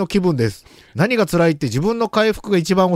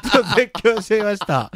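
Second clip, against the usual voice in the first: stifled giggles; 4 semitones higher than usual. Real, not acted. Reader breaks up laughing.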